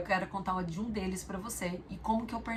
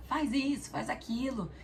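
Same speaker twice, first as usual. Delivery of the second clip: mock nagging; 5 semitones higher than usual. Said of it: "tô gritando alguma coisa".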